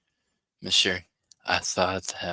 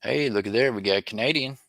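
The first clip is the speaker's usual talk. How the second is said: excited, raised announcement of a discovery; excited find; 5 semitones higher, 4 dB louder than usual. Real, not acted. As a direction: call out the lucky find with lifted pitch. Calls out a coin find.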